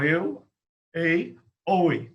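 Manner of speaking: "eu", "ei", "oi" with the first vowel stressed; diphthong demo. Shown as a demonstration. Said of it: "a primeira vogal mais forte mesmo foi a que eu pronunciei". (primeira vogal forte em "eu", "ei", "oi")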